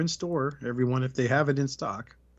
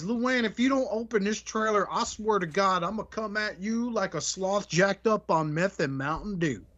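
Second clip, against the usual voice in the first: put-on angry drunk threat; 6 semitones higher than usual. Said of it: "The third one says".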